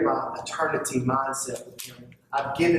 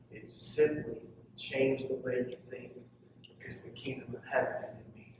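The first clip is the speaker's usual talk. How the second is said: softer, intimate sermon voice; hushed preaching; 6 dB quieter than usual. Acted. Preacher confiding to the congregation, hushed and close. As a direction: draw them in quietly.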